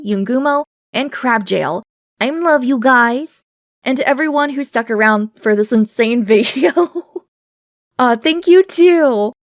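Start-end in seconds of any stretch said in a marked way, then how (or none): 2.2-3.4 slow, affectionate thanks; warm. Real, not acted. Thanking supporters. 8.0-9.3 high, slow, emphatic thank you; excited thanks. Real, not acted. Thanking viewers.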